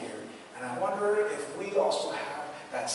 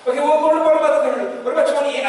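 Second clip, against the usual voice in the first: eager, climbing pleas, much higher and louder; a raised, excited bargaining voice; Abraham bargaining with God; 8 semitones higher, 12 dB louder, faster than usual. Acted. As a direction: haggle hopefully, number by number. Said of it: "this long discourse with, uh, that Abraham has".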